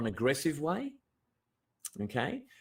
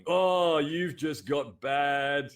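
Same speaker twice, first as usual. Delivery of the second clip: mocking friends; 2 semitones higher, 4 dB louder, much slower than usual. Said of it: "they start going".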